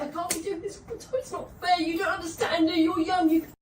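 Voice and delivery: high-pitched, upset pleading; tearful protest. Real, not acted. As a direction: plead as if close to crying. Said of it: "you can't just start crying".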